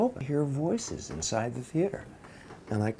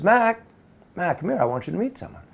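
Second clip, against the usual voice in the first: high, raised call for attention; 8 semitones higher, 4 dB louder, faster than usual. Retold or imitated. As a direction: imitate a woman calling someone over. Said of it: "she calls for Mac Dixon".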